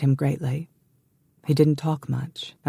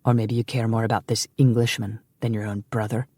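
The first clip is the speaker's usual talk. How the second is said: sneering; 3 semitones lower than usual. Acted. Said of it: "he sneered".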